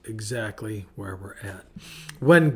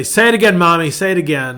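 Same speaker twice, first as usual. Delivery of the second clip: put-on high, loud childlike pleading; eager child begging; 5 semitones higher, 10 dB louder, faster than usual. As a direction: beg like an excited little kid. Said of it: "And I would say".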